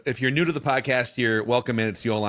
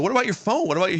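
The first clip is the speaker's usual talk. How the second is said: disbelieving question, pitched way up; incredulous; 10 semitones higher, much faster than usual. Retold or imitated. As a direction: ask like you can't believe it. Incredulous retold question to teammate.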